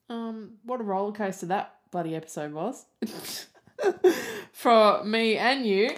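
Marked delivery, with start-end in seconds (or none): 3.0-6.0 high, loud burst of laughter; laughing through the words in relief; real laughter breaking out. Real, not acted. Laughing off an emotional episode.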